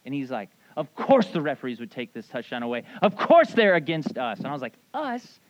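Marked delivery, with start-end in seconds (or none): 0.8-4.4 aggrieved imitation, getting louder toward the end; mock indignation. Mad friend blames the referees for the lost touchdown, indignant. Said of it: "my friend's, like, so mad". 4.9-5.4 high-pitched retold disbelief; incredulous query. Speaker queries non-fan friend claiming the team as his, incredulous.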